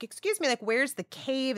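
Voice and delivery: mother voicing her daughter asking for the cave; imitating her daughter. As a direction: play the little girl asking, slightly put out. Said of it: "my daughter's like".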